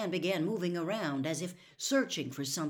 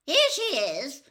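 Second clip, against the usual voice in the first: higher, loud call down the hall; 9 semitones higher, 9 dB louder than usual. A narrator's reading. Aunt calls to her brother that the girl is safe, loud and high. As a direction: call it out to him. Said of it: "Aunt Alexandra called".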